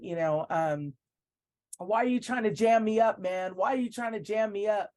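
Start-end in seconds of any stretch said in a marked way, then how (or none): 1.8-4.9 retold yelling. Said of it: "he just started yelling and saying".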